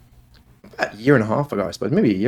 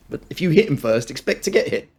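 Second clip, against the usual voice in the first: higher-pitched, lightly voiced dad; parent laying down rules; 5 semitones higher than usual. Dad retelling his rule to his daughter, mild parental firmness. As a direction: spell out the rule as to a child. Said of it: "I say that to my daughter all the time".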